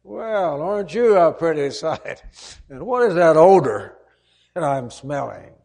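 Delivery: a scolding father sneers at his returning son, sarcastic. Retold or imitated. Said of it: "what some fathers might have said".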